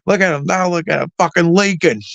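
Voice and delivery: taunting. Retold or imitated. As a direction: throw it at the laughing friends, mock cocky. Taunting friends after the fight.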